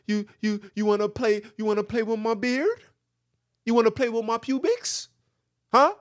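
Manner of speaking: lightly voiced predator, coaxing and insistent; creepy coaxing voice. Mocking missionaries, luring a young boy creepily. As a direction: coax a child with sly repeated questions. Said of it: "I'm talking it like that".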